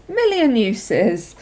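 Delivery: million uses stretched slowly; slow, drawn-out repeat. Shown as a demonstration.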